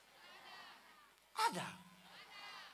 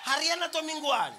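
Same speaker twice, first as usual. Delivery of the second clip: teasing shout; 2 semitones higher, 4 dB louder than usual. Real, not acted. Repeated teasing question.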